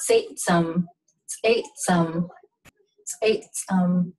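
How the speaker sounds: "Satesome" with popped TS sounds; "Satesome" as ts'ayts'um, with tiny breaks; ejective TS. Shown as a demonstration. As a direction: pop the ts at the start of "Satesome". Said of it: "ejective C".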